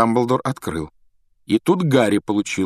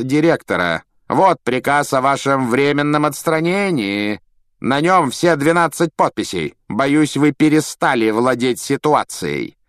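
higher, louder, silky menace; Malfoy gloating; 6 semitones higher, 6 dB louder than usual. A narrator's reading. Malfoy to Dumbledore, gloating official menace. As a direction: savour every word.

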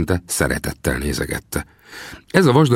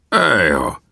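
astonished exclamation. A narrator's reading. Gunsmith amazed as the young man lifts the rifle, astonished. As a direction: exclaim in wonder. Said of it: "kiáltott fel mister Harry csodálkozva".

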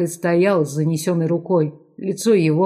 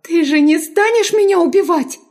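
high, fearful halting question; flustered mumble; 12 semitones higher, 4 dB louder than usual. A narrator's reading. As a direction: stammer it out in fear, much higher. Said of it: "сбивчиво пробормотала".

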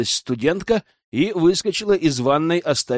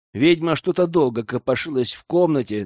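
usual speaking voice

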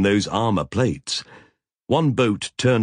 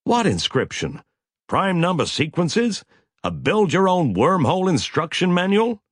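high-pitched, incredulous questioning; wildly exasperated, pitch soaring; 10 semitones higher than usual. A narrator's reading. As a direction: fire off wild questions, voice climbing high. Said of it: "Frank said wildly".

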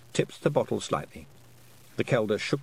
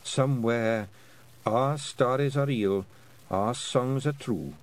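slow, failing last words; lightly voiced old Scottish woman, fading; fading old Kelda; 3 semitones higher, slower than usual. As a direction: breathe out a last blessing.

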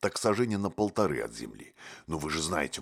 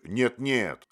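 loud higher emphatic no; wild cry; 6 semitones higher, 4 dB louder than usual. A narrator's reading. Motylyok cries out to stop the doll, loud. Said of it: "с дикой энергией вскричал Мотылёк".

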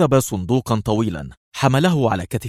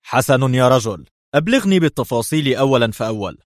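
firm order, a bit louder; crisp commander's decision; decisive; 4 semitones higher, 4 dB louder than usual. Acted. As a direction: close the call with authority. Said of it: "ثم قال في حسم".

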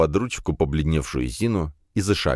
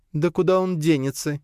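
giggling; 11 semitones higher than usual. A narrator's reading. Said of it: "хихикнула Зина".

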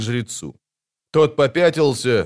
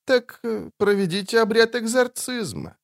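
coldly; 10 semitones higher, 3 dB quieter than usual. A narrator's reading. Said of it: "предложил он холодно".

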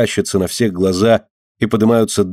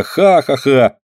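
louder ringing 'ха-ха-ха' of the wind; wind laughing; 5 semitones higher, 4 dB louder, slower than usual. Pretend. Dinka showing how the wind laughs along, mock laugh. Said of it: "и ветер смеётся".

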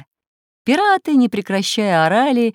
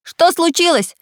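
much higher, louder alarmed question; surprised call; 12 semitones higher, 6 dB louder than usual. A narrator's reading. Samodelkin runs up at the cry, surprised and much higher. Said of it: "удивился Самоделкин".

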